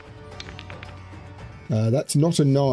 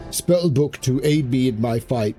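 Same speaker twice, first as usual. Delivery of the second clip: spell incantation. Acted. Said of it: "incantation you read aloud".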